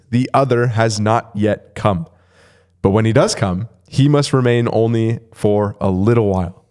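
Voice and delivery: deliberate reading with measured pauses. Real, not acted. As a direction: read it carefully, phrase by phrase. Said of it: "I had to read it a little bit slower".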